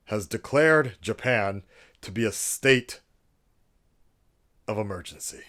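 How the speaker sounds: loud, formal, announcer-style address voice; mock presidential address. Vlogger parodying a presidential speech to viewers, grand and formal. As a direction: play a head of state addressing the nation. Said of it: "I don't know why I keep doing this accent".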